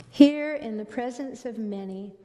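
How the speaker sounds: slow and reverent, we are one drawn out; slow, reverent repeat. Shown as a demonstration. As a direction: let the phrase settle slowly, like a prayer. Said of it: "And the words are".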